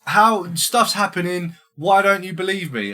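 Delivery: high, loud furious yelling wife; mock-furious wife yelling at her husband. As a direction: shriek it at your husband in outrage. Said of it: "And the wife's like".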